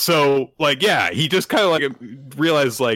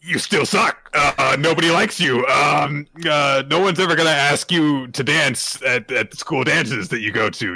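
mock bully taunt; 3 semitones higher than usual. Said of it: "goes into Boruto's ear and is like".

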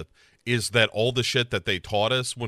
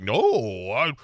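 gruff dad; 3 semitones higher, 4 dB louder than usual. Retold or imitated. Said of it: "And he's like".

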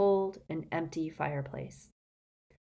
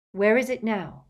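eager, lifted question; jubilant; 4 semitones higher, 4 dB louder than usual. Acted. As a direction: ask it gleefully. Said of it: "asked Harry jubilantly".

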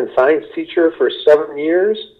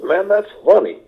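higher, admiring verdict on a crafted joke; appreciative fan's take; 6 semitones higher than usual. Shown as a demonstration. Audience member admiring a joke, raised and impressed. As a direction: sound like a fan impressed by a good joke. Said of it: "an appreciation of humor is when".

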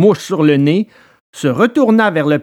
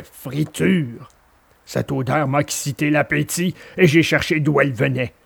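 kindly dog; 3 semitones lower, 3 dB quieter than usual. Acted. Alidor answering Pinocchio's thanks, calm low dog voice. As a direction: shrug off the thanks calmly. Dog tells his story.

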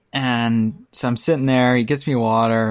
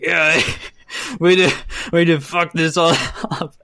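grumpy guy; 5 semitones higher than usual. Retold or imitated. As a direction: retell the dig half-laughing. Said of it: "with a straight face".

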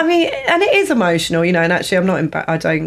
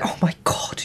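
whispered oh my God, unvoiced; imitated hushed gasp; 7 dB quieter than usual. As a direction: breathe it out like a secret panic. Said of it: "'cause you're like".

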